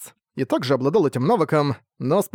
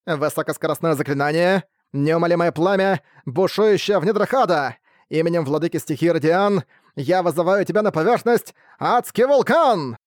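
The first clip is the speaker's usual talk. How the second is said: spell incantation; 3 semitones higher than usual. Acted. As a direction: summon the volcano. Mage chants fire incantation.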